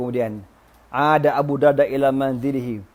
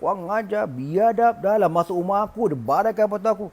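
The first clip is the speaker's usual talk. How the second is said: mock rampage; 5 semitones higher than usual. Husband rages at the intruder, restrained mock rampage. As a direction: rage with the volume held back.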